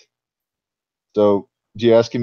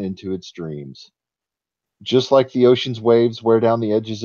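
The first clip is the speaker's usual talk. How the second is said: story narration. A narrator's reading. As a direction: read it like an old tale. GM reads the forest legend.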